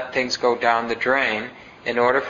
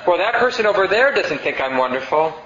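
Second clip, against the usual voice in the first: wounded complaint; 5 semitones higher than usual. Retold or imitated. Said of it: "people who say".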